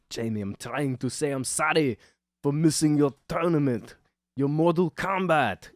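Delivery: high, loud hammed-up apology; pleading dad. Dad apologizing to his son who walks away, high mock pleading. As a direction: plead after the kid like a sitcom dad. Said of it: "and he's like".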